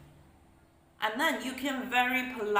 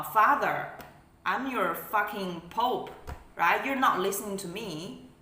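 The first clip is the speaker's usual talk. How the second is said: angry boss rant. Retold or imitated. Controlling elder berating a disobedient child, outraged. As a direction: act out an indignant authority figure. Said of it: "they're like".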